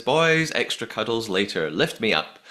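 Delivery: mock summons to the boys; calling her boys. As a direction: call out "Boys", then settle. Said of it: "She says".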